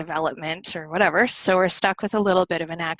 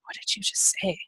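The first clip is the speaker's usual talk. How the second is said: hushed, baffled question; mock bewilderment, almost whispered; puzzled listener; 6 dB quieter than usual. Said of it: "looking at you like".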